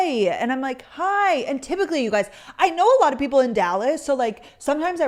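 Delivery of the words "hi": excited hi. Retold or imitated. Greeting the fan back.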